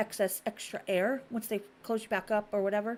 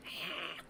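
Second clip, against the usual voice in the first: dazed "ah"; 4 semitones lower, 12 dB quieter than usual. Retold or imitated. Imitating drugged man gaping out window.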